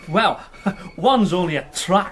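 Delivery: a light chuckle through the words; amused little laugh mid-sentence; chuckling. Acted. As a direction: laugh it off while explaining. Constable chuckles explaining the road.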